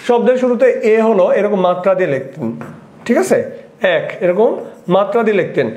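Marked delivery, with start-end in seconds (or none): 4.0-4.0 এক said "æk"; open ae vowel. Shown as a demonstration. Teacher explaining Tagore's spelling mark, open ae. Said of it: "একের উচ্চারণটা হবে এর মতো".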